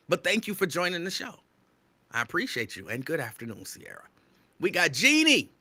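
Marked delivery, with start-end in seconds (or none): 4.6-5.5 excited radio shout-out. Real, not acted. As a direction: hype announcer call, a bit louder. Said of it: "I feel like I'm screaming".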